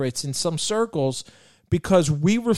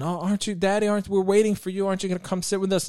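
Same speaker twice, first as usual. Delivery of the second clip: gently voiced kids' begging, pitched up; pleading little daughters; 4 semitones higher, faster than usual. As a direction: lightly imitate kids coaxing their dad. Father voices his daughters pleading.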